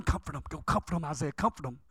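soft, low, comforting instruction; gentle urging. Acted. God sending Isaiah to comfort people, gently. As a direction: drop down low and coax softly.

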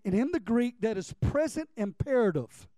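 normal talking voice

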